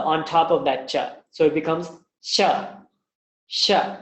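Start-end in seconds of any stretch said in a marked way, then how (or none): 3.5-4.0 sha made where cha is; palatal sha. Shown as a demonstration. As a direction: hiss sha at the cha spot. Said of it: "That's how you pronounce sha".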